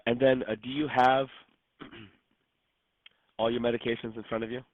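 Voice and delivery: rough, worn-out voice after losing it; hoarse voice. Real, not acted. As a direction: speak through a sore, hoarse throat. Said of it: "I sound like a dinosaur".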